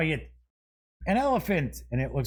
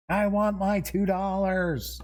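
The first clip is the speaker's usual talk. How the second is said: a little higher and punchier quoted demand; movie quote; 5 semitones higher than usual. Acted. Host repeating the movie quote to himself, punchier. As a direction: repeat the line with more push on want. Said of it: "I don't know why that just popped in my head".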